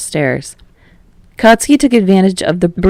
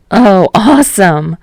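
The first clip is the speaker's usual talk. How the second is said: delighted; 3 semitones higher, 5 dB louder, slower than usual. Acted. Lights out, runs to storm.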